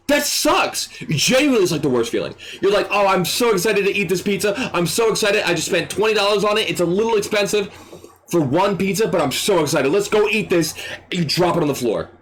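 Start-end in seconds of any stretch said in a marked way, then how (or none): 2.9-10.7 higher, eager imitated customer; acted happy anticipation; excited customer. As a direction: bubble over about a treat, pitched up. Acted customer thrilled about pizza.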